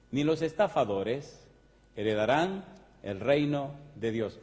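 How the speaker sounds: slow, deliberate reading with pauses between each item; measured preacher reading; solemn scripture reading. Acted. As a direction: read the verse like a slow drumbeat. Reads scripture slowly, list.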